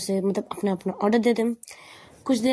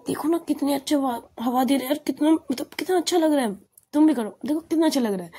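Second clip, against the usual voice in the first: higher-pitched, lightly acted delight; retold full enjoyment; 5 semitones higher than usual. Passenger urging her companion to enjoy the breeze, lightly acted delight. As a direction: gush a little, playing the carefree passenger. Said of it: "तीसरा तो भाई full enjoy में थी".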